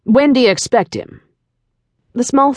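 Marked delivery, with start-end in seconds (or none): 0.0-1.2 tightly controlled impatient male caller; leashed impatience. A narrator's reading. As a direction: press for an answer, impatience held in check. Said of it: "His tone indicated a tightly leashed impatience".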